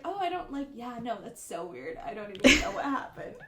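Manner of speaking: breezy cover-up, playing it cool; fake confidence. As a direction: act like nothing went wrong. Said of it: "And I was like".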